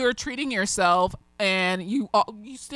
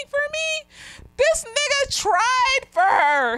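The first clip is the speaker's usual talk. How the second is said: touched emphasis; 3 dB louder, much slower than usual. Real, not acted. Moved, telling a touching story.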